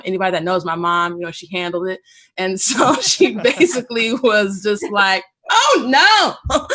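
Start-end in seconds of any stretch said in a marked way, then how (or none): 5.5-6.8 higher, louder, crying laugh; laughing through tears; a cry breaking into the words; choked-up laugh. Real, not acted. Tearful laugh retelling mom.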